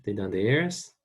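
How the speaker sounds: teacher drilling the phrase; slow practice repeat. Shown as a demonstration. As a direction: model it again carefully. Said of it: "Let's practice saying that".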